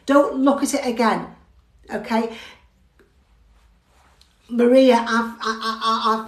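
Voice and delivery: normal talking voice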